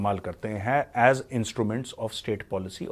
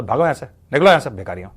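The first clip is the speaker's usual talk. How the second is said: louder mock dismissal; shooing them away; 7 dB louder than usual. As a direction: bark them out of the room. Telling Pakistan off, calling out. (भगाते हुए ज़ोर से डाँट)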